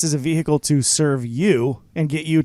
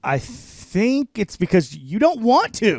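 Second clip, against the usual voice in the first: slow, higher, drawn-out answer; drawn-out mock pondering; 5 semitones higher, slower than usual. Co-host answering the host's repeated question, drawn out. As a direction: stretch it out like a running punchline.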